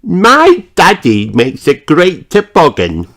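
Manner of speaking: put-on high proud little girl voice; boasting to friends; Peppa, proud. A narrator's reading. Peppa telling everyone about Daddy, proud high voice. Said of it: "Peppa tells everyone".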